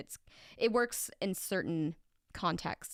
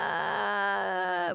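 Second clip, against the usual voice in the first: failed fry scream. Retold or imitated. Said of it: "that's not a fry scream".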